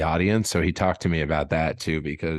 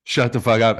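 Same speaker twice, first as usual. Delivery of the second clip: louder, firmer repeat of the yell; retold scream; 3 semitones higher, 4 dB louder than usual. Comic retelling Tim Heidecker yelling at hecklers, mock yell. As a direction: bark it once more to shut them up. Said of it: "He just screamed".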